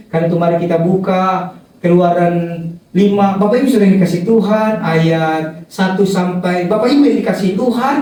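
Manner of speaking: mock rookie preacher, low stilted opening; tongue-tied novice preacher. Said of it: "begitu dieksekusi ke mulut". (meniru pengkhotbah pemula yang kaku dengan nada rendah)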